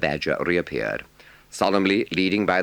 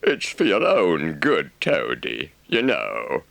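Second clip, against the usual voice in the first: kindly rat; slower than usual. A narrator's reading. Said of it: "said the rat kindly".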